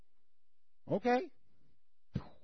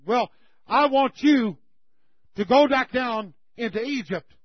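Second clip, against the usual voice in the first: booming voice of God; 3 semitones higher, 6 dB louder than usual. Acted. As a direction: proclaim it like God sending Moses. God commands Moses from bush.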